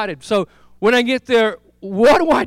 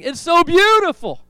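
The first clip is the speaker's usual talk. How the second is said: mock ecstatic cry, higher and louder; retold joyful yelling; 9 semitones higher, 4 dB louder than usual. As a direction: call it out in rapture, rising each time. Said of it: "he began screaming and yelling".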